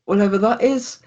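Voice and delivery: put-on very high, bubbly girlish chatter; excited girlfriend. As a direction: gush on in a squeaky girlfriend voice. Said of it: "And she's like".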